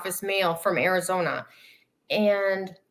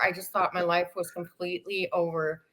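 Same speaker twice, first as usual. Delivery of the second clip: repeated softer, trailing into despair; quieter, sinking; 3 semitones lower, 6 dB quieter than usual. Real, not acted. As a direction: let the line drop away softly. Despair retold, then repeated.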